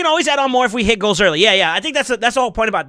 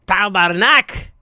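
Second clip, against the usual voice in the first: Quebec French swear; 3 dB louder, much slower than usual. Shown as a demonstration. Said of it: "That's all I, I only know".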